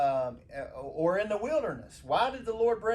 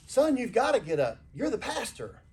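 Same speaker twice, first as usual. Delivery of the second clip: louder, higher, mock-scolding mom; mom's punchline; 4 semitones higher, 6 dB louder than usual. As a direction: wake him up with a firm mock scold.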